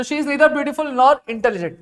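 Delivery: very slow, word by word answer; slow dictation. Shown as a demonstration. (धीरे-धीरे उत्तर लिखवाना)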